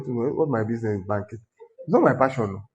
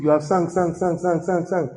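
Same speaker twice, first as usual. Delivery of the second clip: mocking repetition; 4 semitones higher than usual. Real, not acted. Mocking endless singing, chanted repetition.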